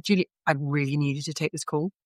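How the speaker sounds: mildly authoritative retold request. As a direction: quote him with a touch of firm authority. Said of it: "he said it in a kind of authoritative voice".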